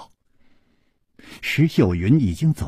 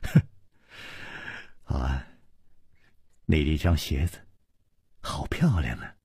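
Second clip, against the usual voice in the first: hushed, low and gentle; soft-spoken; 9 semitones lower, 7 dB quieter than usual. A narrator's reading. Chu Liuxiang admires her new shoes, soft-spoken. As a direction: say it softly, almost under the breath. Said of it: "轻声说".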